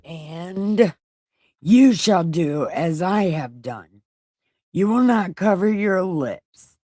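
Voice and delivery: lightly voiced declaiming God; a hint of divine pronouncement. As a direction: proclaim it as God, in weighty separate phrases. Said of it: "I'll just do this in God voice".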